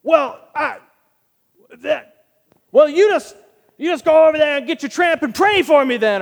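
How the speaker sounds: high, loud, sputtering mock comeback; flustered tough guy. Disarmed stranger sputtering a comeback, high flustered voice. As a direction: stumble then blurt it out, thrown off. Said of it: "he was like".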